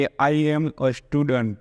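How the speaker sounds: very slow, each word spaced out; careful classroom dictation; slow model reading. Shown as a demonstration. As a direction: spell out I am a student. slowly for the class. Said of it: "જેમ કે".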